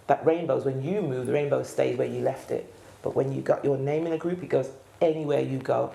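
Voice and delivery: lightly Brummie, "You keep that name" in Birmingham vowels; relaxed Brummie advice; Brummie accent. Shown as a demonstration. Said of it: "I'll do it in Brummie now".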